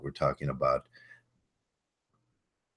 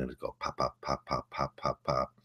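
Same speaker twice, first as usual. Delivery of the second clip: soft popping; 2 semitones lower, 7 dB quieter than usual. Shown as a demonstration. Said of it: "you'll hear a subtle crack".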